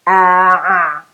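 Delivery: "ah" pressed tight in the throat; guttural ayn. Shown as a demonstration. Teacher showing the ayn against plain ah, guttural. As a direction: squeeze the "ah" from the throat. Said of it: "the ah as ah without".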